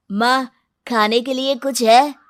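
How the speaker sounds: put-on a hungry kid calling to his mother; eager child's plea; young boy Bantu. Boy Bantu asks mother for food.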